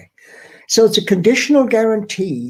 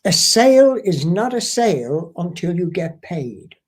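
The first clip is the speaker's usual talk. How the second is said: lightly voiced mentor laying down a rule; emphatic quote, lightly acted; quoted mentor. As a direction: deliver it as a mentor's firm maxim. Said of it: "it came out something like this".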